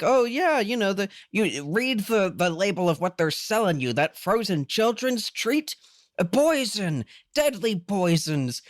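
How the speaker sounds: high, theatrical warning rant; Dr. Amp. Acted. Podcaster imitating the host's tirade about food labels, hammed-up. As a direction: imitate a web-show crank going off, pitch lifted. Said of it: "going off on this whole thing".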